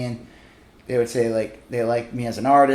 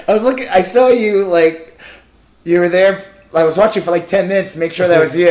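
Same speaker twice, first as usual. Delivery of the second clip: eager fan; 4 semitones higher, 5 dB louder than usual. Retold or imitated. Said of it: "He goes".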